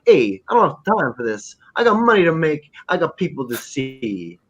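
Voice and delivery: cocky drug-dealer quote, rising then slowing; lightly voiced tough guy. Fan imitating a leather-jacketed dealer brushing people off, cocky. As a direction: lightly play a Fonz-style hotshot. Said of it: "he's like the Fonz".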